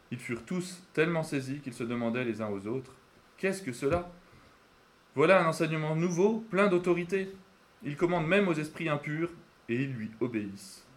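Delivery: measured, expressive Bible reading with clear pauses; scripture reading. Acted. Preacher reading the Gospel to the congregation, measured and expressive. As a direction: read the Gospel aloud, phrase by phrase.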